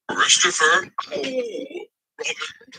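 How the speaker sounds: calling up from below a tree. A narrator's reading. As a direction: call the name upward to a friend. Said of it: "called out the cloud".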